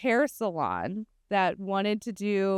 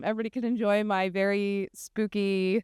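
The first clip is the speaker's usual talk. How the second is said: hoarse laryngitis smoker voice. Real, not acted. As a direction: rasp it out with a sore throat. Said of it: "laryngitis smoker voice".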